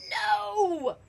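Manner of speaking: loud, high, drawn-out no; defiant shout; group yell. A narrator's reading. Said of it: "all yelled".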